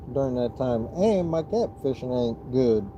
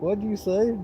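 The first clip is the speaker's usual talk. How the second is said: put-on girlfriend's puzzled question, pitched higher; a higher mock of his girlfriend not catching his words; imitating girlfriend; 8 semitones higher than usual. Girlfriend who can't understand him asking, higher mock voice. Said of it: "She's like".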